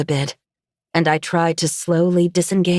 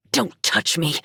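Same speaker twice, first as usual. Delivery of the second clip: shouted rebuff. A narrator's reading. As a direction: shout held down, a touch of anger. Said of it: "she shouted".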